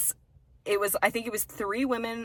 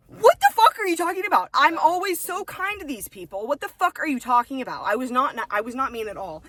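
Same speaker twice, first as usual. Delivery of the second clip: higher, louder indignant rant; re-live the outrage, loud and high; retold outrage; 6 semitones higher, 6 dB louder than usual. Retelling her reaction to the customer's complaint, loud indignant outrage.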